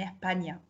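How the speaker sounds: "España" with Ñ said as GN; Ñ espagnol. Shown as a demonstration. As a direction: say "España" the Spanish way, GN before the final A. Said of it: "avec le N tilde". (« España » avec le son GN du N tilde)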